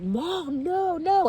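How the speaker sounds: high, drawn-out daughter imitation; mortified protest. Daughter calling back her mother running at the stage, high protest. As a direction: mimic a daughter's pleading, pitch leaping way up.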